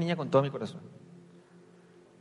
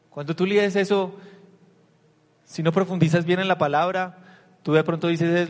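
louder, higher urgent teaching; raised preaching voice; emphatic preaching; 4 semitones higher, 6 dB louder than usual. Acted. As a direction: press the point hard.

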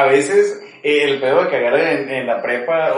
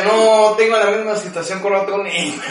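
joking mom voice; 5 semitones higher than usual. Pretend.

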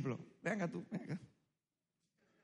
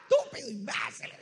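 high-pitched mock screaming of insults; retold yell; 4 dB quieter than usual. Preacher re-enacts his shouting matches with his partner, mock screaming. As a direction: imitate a screaming fight, voice jumping way up. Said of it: "y ella me gritaba".

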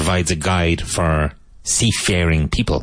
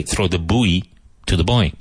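put-on American "buoy" said "boo-ee", then "boy"; "Throw the buoy to the boy" with American "buoy" as "boo-ee". Shown as a demonstration. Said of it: "But an American would say".

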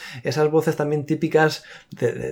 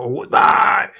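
louder cartoon pig voice; 4 semitones higher, 5 dB louder than usual. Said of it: "así con voz de cerdo".

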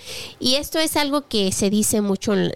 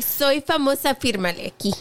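man doing a woman's voice; 4 semitones higher than usual. Retold or imitated. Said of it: "Kiki's like".

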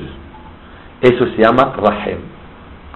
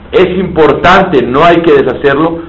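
Saul arguing; 5 semitones higher, 3 dB louder than usual. Retold or imitated. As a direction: plead that it matters. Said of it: "tú me discutes y me dices". (Saúl discutiendo con Dios, insistente y más agudo)

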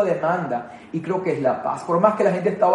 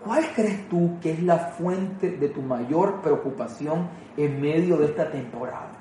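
slow intimate question; 6 dB quieter, slower than usual. Real, not acted. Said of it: "le puedas responder esta pregunta".

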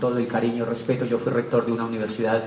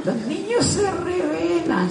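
slow, high words through laughter; can't stop laughing while saying it; laughing delight; slower than usual. Real, not acted. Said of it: "laughing at the punchline".

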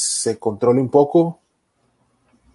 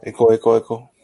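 echo; 2 semitones lower, 4 dB louder than usual. Pretend. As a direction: mimic a room echo dying away. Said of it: "Con eco".

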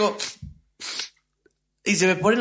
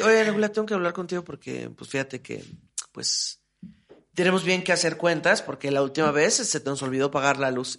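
much softer, lower, grave hush; serious talk; 6 semitones lower, 6 dB quieter than usual. Retold or imitated. Roommate asks to settle bills, soft and grave. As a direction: break the news gently and softly.

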